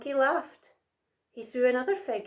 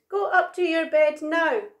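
loud, higher order; cross shout; 6 semitones higher, 5 dB louder than usual. A narrator's reading. Big Monkey sends Little Monkey to bed, cross shout. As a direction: send them off crossly. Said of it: "he shouted".

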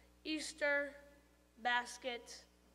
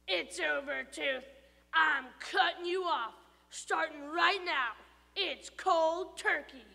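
firm; 3 semitones higher, 5 dB louder than usual. Acted. Stuart firmly cutting off tooth.

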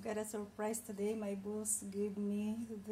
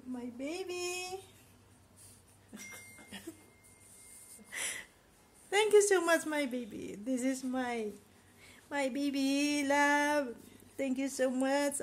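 fighting back tears while thanking her family; emotional thanks; 5 dB louder than usual. Real, not acted. A maid thanking her employers for the cake, tearful. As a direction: voice breaking, louder, near tears. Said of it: "I'm sorry, I'm just emotional".

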